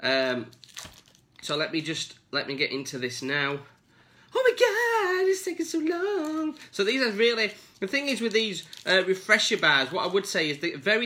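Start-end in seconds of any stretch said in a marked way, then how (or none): 4.3-6.6 exasperated. Real, not acted. Struggling to open packet.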